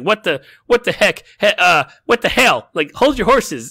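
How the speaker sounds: a captain caught off guard, blustering loudly; flustered outburst. Retold or imitated. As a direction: blurt it out like a panicking new captain. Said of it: "she's like".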